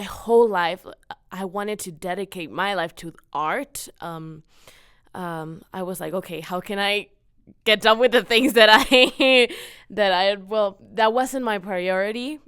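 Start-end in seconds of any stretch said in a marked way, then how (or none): 6.1-12.4 louder, higher, laughing as she quotes herself; amused self-quote. Retold or imitated. Student recalling her plan to finish school, amused self-quote. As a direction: quote your old thought, breaking into a laugh.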